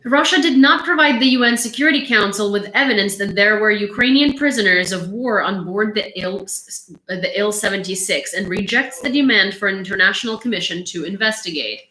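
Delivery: emphatic news bulletin delivery; projected, measured news reading. Acted. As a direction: read out the war report. Reads out war news.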